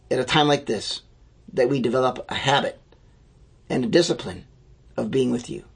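gentle pastoral prayer, fading at the end; closing prayer. Acted.

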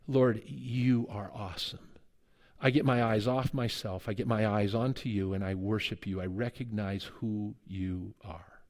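worshipful prayer. Shown as a demonstration. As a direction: pray in quiet awe, eyes on him. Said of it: "to begin with a spirit of worship and adoration".

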